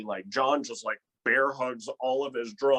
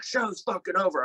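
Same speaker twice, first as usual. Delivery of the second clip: mock bartender; 8 semitones higher than usual. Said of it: "He's like".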